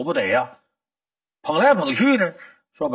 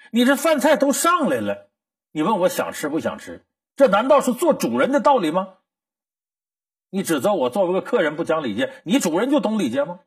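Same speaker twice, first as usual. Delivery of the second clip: sharp retort; 4 semitones higher than usual. Acted. Boy Kong Rong snaps back at host Li Ying, sharp retort. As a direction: hit back at the host with each question.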